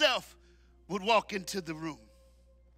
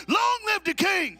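much louder, higher, slow shout; shouted proclamation; 9 semitones higher, 5 dB louder than usual. Shown as a demonstration. Preacher showing the men how to say it, loud shouted proclamation. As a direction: proclaim it like the king walked in. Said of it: "say it like the king is in the room".

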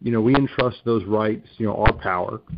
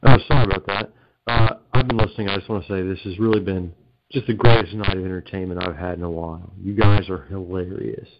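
cave echo; 2 semitones lower than usual. Real, not acted. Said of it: "sounds like you're in a cavern right now".

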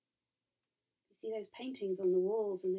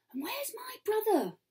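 high, hissing demand; hissed challenge; 12 semitones higher than usual. A narrator's reading. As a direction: hiss it as an accusing question. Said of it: "she hisses".

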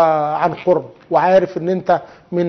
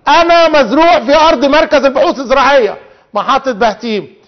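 a hint of talking rice, pitched higher; higher, emphatic mock testimony; lightly voiced rice; 5 semitones higher than usual. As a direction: lightly speak up as the accusing crop. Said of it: "الارز لو انطقوه ليقول".

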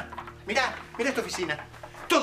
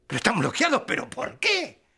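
indignant disbelief; 2 semitones higher than usual. Acted. Caller learning his money is blocked, indignant. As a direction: demand an explanation, incredulous.

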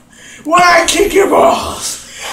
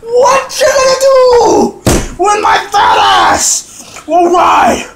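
wrestler taunt. Acted. Wrestler taunt before a body slam.

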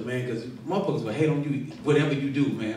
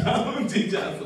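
higher, breaking into a laugh on "I'm a teacher"; 9 semitones higher than usual. Real, not acted. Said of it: "I'm, I'm a teacher".

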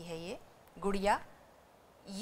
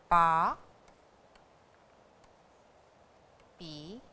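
पा, पी, पू, पे, पो with long gaps; slow syllable drill; 6 semitones lower, 7 dB quieter, slower than usual. Shown as a demonstration. Teacher sounding out syllables slowly for learners. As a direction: drill them one by one. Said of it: "syllables repeated after quick reading".

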